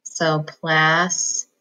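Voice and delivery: "plastic" stretched very slowly; drawn out syllable by syllable; slow decoding; syllable split. Shown as a demonstration. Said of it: "split it right between the S and the T".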